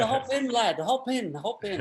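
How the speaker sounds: imitating the driver, pitched high and keen; mock eager driver waving him in. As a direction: driver hurrying the lad into the car, high and eager. Excited driver, retold.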